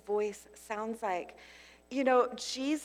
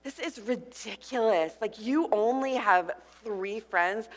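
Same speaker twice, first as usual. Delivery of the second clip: mocking inner voice; 4 dB louder than usual. Speaker retelling her own scornful thoughts at her birthday, mock disdain. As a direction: scoff at yourself. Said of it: "I remember sitting there just thinking".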